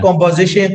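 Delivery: composition said for conversation; composition, the old Burmese-English slip; old wrong way. Shown as a demonstration. Learner showing a past mispronunciation, composition for conversation. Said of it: "I was pronouncing wrongly".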